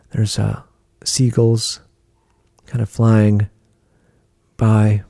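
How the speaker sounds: unhurried meditation voice with long pauses; guided meditation. Acted. Guiding a listener through a car ride to the ocean, guided meditation. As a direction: lead the listener gently through a scene, pausing between phrases.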